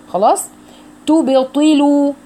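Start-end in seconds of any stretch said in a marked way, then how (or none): 1.1-2.1 تبطلوا slow and higher, each syllable set apart; slow syllable demo. Shown as a demonstration. Teacher models the word for students, slow careful demo. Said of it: "يعني ضم التاء كويس".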